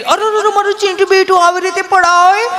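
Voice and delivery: high, fussing mom voice; fussing mother. Retold or imitated. Mother cooing over her fallen son, high and fussing. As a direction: coo over the fallen child like a doting mother. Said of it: "mummy બિચારી".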